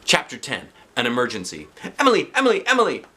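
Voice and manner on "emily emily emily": high, loud calling. Acted. The kids calling for missing Emily. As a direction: call her name across the room.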